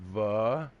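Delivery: "Va-gi-na" broken into three separate syllables. Shown as a demonstration. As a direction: spell out "Va-gi-na" by sound, like a pronunciation lesson. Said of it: "do the syllables for you".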